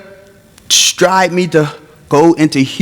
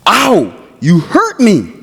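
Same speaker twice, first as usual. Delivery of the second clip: a hint of dad's groaning complaint; mild mock pain; 4 semitones higher, slower than usual. Dad calling out hurt by the friend, slow and pained.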